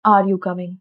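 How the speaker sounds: "Are you coming" low with no final rise; low, level "Are you coming"; flat question. Shown as a demonstration. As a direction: ask "Are you coming" without any music. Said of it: "English flat नहीं होता".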